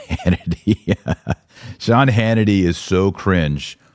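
chuckling through the name, amused disdain; laughing scorn. Real, not acted. Host laughing at a viewer's Hannity comment, amused scorn. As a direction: laugh it out, mocking.

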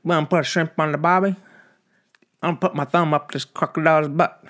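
high, loud mock Aussie; shitty Australian accent. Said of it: "What the fucking shitty accent is that?".

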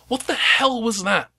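high, slow, startled captain; captain's demand. Acted. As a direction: voice a rattled captain. Captain voiced in GM scene.

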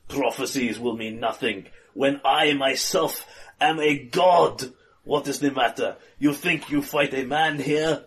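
villain voice. Acted. Villain boasting.

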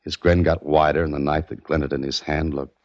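low-key noir storytelling voice; detective narration. A narrator's reading. Private eye narrates his search for Meade, noir storytelling. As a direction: tell it like a tired private eye.

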